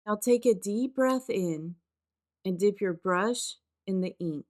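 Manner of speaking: unhurried meditation guide with spacious pauses; guided meditation. Acted. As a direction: gently lead them into the practice, phrase by phrase. Leads a grounding meditation.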